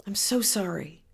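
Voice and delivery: softly moved condolence; emotional compassion. Shown as a demonstration. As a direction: say it softly, feeling it. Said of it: "I get emotional just saying those words".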